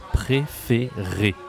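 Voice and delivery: very slow "Préféré", each é closed; teacher spelling out the sounds slowly; slow demonstration. Shown as a demonstration. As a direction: stretch out "Préféré" syllable by syllable. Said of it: "Ça se dit et".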